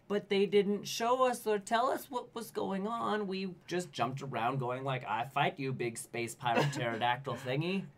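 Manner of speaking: a hint of a dumb hero; lightly voiced goofy hero; mock game hero. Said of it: "and it's like".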